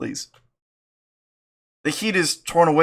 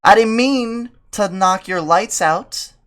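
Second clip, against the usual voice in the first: mock innocent voice; 7 semitones higher, 5 dB louder, slower than usual. Character line, loud slow.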